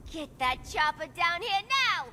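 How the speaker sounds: loud high furious commands; shouting orders. Acted. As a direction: bark orders in a rage. Harley ordering henchmen.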